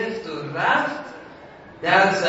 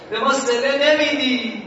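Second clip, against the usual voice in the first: 1 complaining cry; 6 semitones higher, 5 dB louder than usual. Retold or imitated. Poor student complains to Ali.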